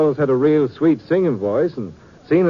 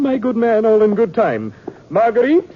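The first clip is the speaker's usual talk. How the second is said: affected stage voice; 6 semitones higher, 3 dB louder than usual. Acted. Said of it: "what happened to your voice?".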